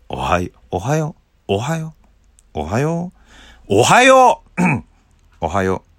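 testing a good morning again and again; searching for the voice. Shown as a demonstration. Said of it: "アンパンマンっぽい感じに引っ張られましたね". (いろいろな高さで試す「おはよう」)

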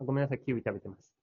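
eating kiwi while talking; mouth full. Real, not acted. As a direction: talk through a bite of kiwi. (キウイを食べながら話す)

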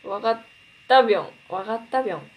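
わかった、ぴょん with a light bouncy ぴょん ending; わかった then a separate, lifted ぴょん; Akita dialect ending. Shown as a demonstration. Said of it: "わかった、ぴょんでも".

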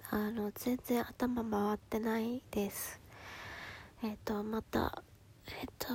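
sleepy and drifting; half asleep, words fading out; nodding off. Real, not acted. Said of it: "ちょっと寝落ちしそうなので". (寝落ちしそうな眠い声)

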